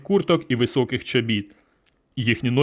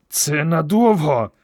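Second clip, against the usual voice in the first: slow, strained words forced through gritted teeth; through clenched teeth; 3 semitones higher, slower than usual. A narrator's reading. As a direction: hold the jaw tight and squeeze it out. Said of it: "крізь зціплені зуби".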